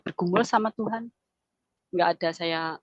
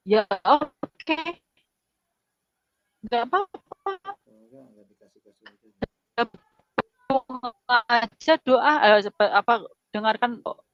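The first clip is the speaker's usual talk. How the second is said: choked-up retelling; 4 semitones higher than usual. Retold or imitated. Wife recalling her talk with husband about church, choked up. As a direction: voice the quote while holding back tears.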